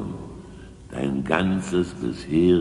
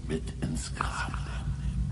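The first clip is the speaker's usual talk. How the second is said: whisper; 8 dB quieter than usual. Acted. Swearing secrecy, whispered.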